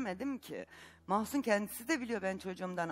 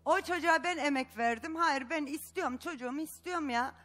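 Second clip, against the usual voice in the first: upset outburst; 5 semitones higher than usual. Real, not acted. Mother pleading for her child.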